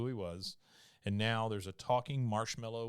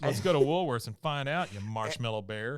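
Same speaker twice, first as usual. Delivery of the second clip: mock eager kid; 4 dB louder than usual. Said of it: "yeah, you bitch".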